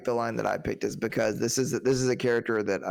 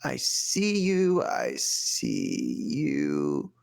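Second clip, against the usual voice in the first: slow, drawn-out taunting threat; menacing movie quote; 5 semitones higher, slower than usual. Retold or imitated. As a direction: stretch "I see you" then bark the order. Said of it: "This one's kinda long".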